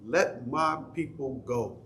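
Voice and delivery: slow, lightly voiced movie-epic Moses; a light take on Heston's slow line; Charlton Heston. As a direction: draw the line out slowly, a hint of the film. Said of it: "what did Charlton Heston say?".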